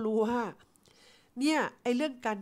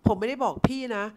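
louder, firm setting straight; firm correction; 3 semitones higher, 6 dB louder than usual. Retold or imitated. Customer correcting the agent's assumption, mildly firm. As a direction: push back plainly, a touch stern. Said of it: "เขาทำเสียงแบบเนี้ย".

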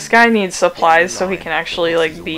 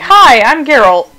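mock Geralt greeting; 6 semitones higher, 9 dB louder than usual. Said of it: "Beat the shit out of someone and be like".

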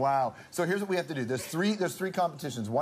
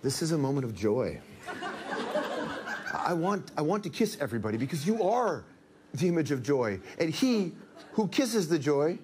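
put-on Italian accent; 3 semitones higher than usual. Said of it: "read Roberto Benigni's acceptance speech".

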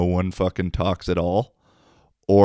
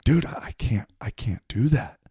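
lightly higher, whiny imitation of the guy; mimicking the guy; 4 semitones higher than usual. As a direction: play the nervous guy at the urinal, a touch higher. Guy at urinal quoted.

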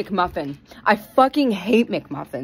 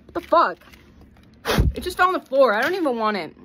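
fake temper tantrum; 3 semitones higher, faster than usual. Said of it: "Fake temper tantrum".

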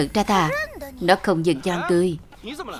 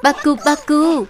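monster roar; 5 semitones higher, 4 dB louder than usual. Acted. Beast demanding who did it, roaring. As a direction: bellow like an enraged beast.

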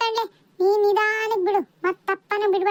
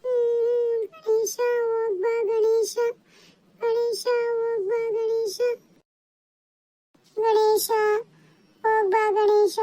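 mock crying; 3 semitones higher than usual. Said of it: "ಅಳ್ಬೇಡಿ ಮಕ್ಕಳೇ". (ಮೆಲ್ಲನೆ ನಾಟಕೀಯ ಅಳು)

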